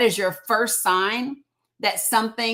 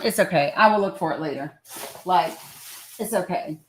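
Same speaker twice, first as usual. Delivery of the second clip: ordinary delivery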